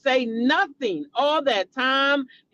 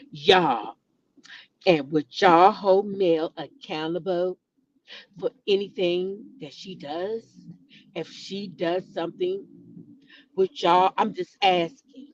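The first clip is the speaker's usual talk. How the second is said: mocking imitation; 5 semitones lower than usual. Vlogger imitates a streamer pleading with his chat, low mock plea. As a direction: impersonate him begging the chat, lightly. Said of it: "he said".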